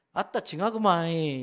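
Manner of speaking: a loud burst of Jeolla dialect. Retold or imitated. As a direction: give away Peter with a thick Jeolla exclamation. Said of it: "갈릴리 사투리를 쓴 거예요". (전라도 사투리로 크게 내뱉듯)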